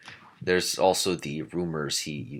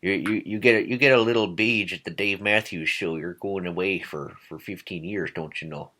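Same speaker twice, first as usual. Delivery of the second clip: put-on upper Midwest accent. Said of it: "like an upper Midwest accent".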